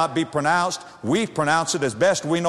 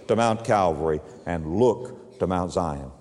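ordinary delivery

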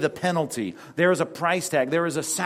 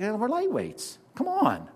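high, scoffing shrug of a voice, pitched higher; mock dismissive; 9 semitones higher than usual. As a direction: brush it off lightly, mocking our excuse. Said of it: "we just think".

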